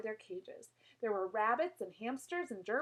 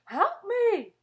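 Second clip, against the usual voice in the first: high, loud cry for help; shout for help; 10 semitones higher, 11 dB louder than usual. Acted. Otis shouting for help in the chaos. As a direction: yell out in panic. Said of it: "Otis shouted".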